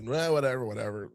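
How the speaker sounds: shrugging, fading to soft; dismissive. Retold or imitated. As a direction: toss it off, losing interest. Giant dismissive.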